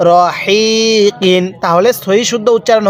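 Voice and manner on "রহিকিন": রহিকিন very slow, light throat air on the long হি; breathy H. Shown as a demonstration. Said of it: "গলার মধ্যে হালকা বাতাস বের করবেন". (রহিকিন-এর হি গলা থেকে হালকা বাতাস ছেড়ে, টেনে)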